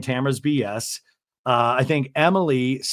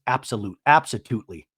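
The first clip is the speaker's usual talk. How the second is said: imitating a calm, settled answer; calm absolutely; 6 semitones lower than usual. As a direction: say it coolly, no heat. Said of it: "And Shannon very calmly says".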